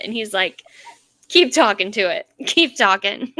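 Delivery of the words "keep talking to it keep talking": laughing mock insistence. Laughs while acting the retort.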